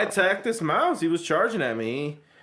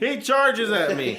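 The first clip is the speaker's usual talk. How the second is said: slow, dramatic, weighted; suspenseful slow; 5 semitones higher, slower than usual. Shown as a demonstration. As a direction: draw it out for suspense. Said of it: "So suspenseful".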